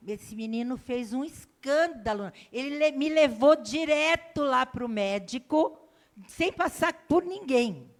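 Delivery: normal talking voice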